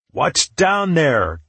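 slow, high, loud call downward. Acted. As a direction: call down into the dark hole. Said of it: "Tallow called from above".

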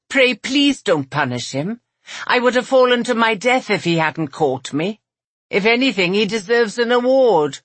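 high, earnest character voice; pleading heroine. A narrator's reading.

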